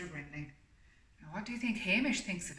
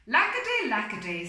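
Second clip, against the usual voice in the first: sadly; 4 semitones higher, 10 dB louder than usual. Acted. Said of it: "said Mister Grinling sadly".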